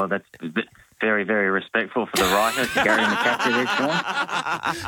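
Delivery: chuckling through teasing words; laughing. Real, not acted. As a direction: laugh while you tease.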